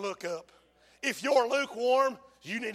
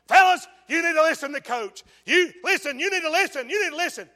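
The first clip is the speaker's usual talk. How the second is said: pleading coach; 6 semitones higher, 9 dB louder than usual. Retold or imitated. Assistant coach pleads with team.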